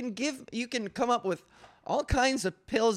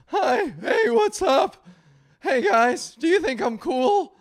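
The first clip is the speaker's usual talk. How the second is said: put-on high, loud eager teenager; chirpy kid begging to fit in; teen kid voice; 7 semitones higher, 6 dB louder than usual. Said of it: "I broke out as thirteen-year-old me".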